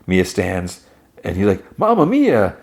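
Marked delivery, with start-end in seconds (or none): 1.8-2.6 guy thrilled to see Mia; excited greeting. Retold or imitated. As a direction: exclaim it with delight.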